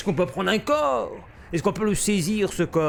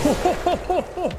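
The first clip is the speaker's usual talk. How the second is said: alarmed oh oh; 13 semitones higher, faster than usual. Real, not acted. Grenade about to explode.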